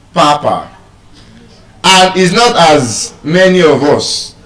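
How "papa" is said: PAPA with both syllables full, first one stressed; wrong British pronunciation. Shown as a demonstration. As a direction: say "papa" with a full first vowel, not a schwa. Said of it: "the British pronunciation of that word is not".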